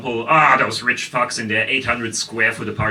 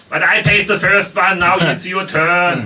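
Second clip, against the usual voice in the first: indignant protest; 5 semitones higher, 3 dB louder than usual. Retold or imitated. Retold protest to unwilling date.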